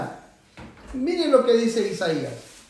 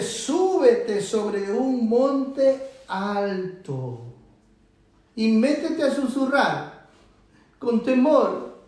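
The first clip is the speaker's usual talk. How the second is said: slow, drawn-out words; nadrukkelijk prediken; much slower than usual. Shown as a demonstration. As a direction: stretch each word of the command. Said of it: "Así se tiene que predicar en un lugar".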